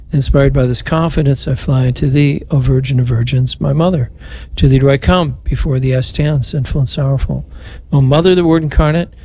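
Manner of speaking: even, devout prayer cadence, last line whispered; prayer recitation. Acted. Priest leading radio rosary, devout prayer recitation. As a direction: pray it aloud for the listeners. Prays the Memorare.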